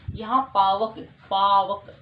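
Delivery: "पावक" said loudly, twice, with the "आव" sound drawn out; loud sound demo. Shown as a demonstration. Teacher sounding out "पावक" loudly to her class. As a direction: call out "पावक" so the "आव" rings clear. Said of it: "आव की निकल रही है".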